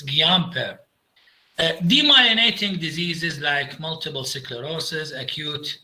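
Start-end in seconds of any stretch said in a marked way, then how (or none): 0.0-0.8 Guillain-Barré said French-style, roughly "ghee-yan-BAR"; French-style Guillain-Barré, silent double L; correct pronunciation. Shown as a demonstration. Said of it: "the correct pronunciation".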